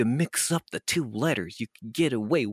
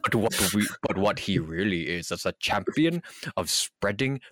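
mock professional statement. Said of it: "Yes, professional".

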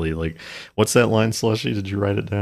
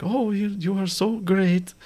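put-on much higher, slow and breathless, a girl gushing over her suitor; mock swooning girl; 13 semitones higher, 4 dB quieter than usual. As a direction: coo it like a lovestruck period heroine. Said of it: "and she's like".

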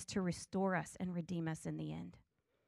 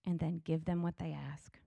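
calm; 3 semitones lower than usual. Retold or imitated. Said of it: "He calmly says".

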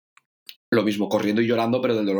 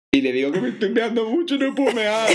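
high, laughing through the words; can't keep a straight face; real giggling retelling; 11 semitones higher than usual. Real, not acted. Laughs recalling the scene.

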